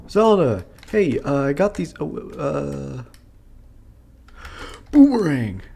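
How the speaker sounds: high excited shout; excited calling out. Acted. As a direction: call out to her eagerly. Calling out to Zelda in game.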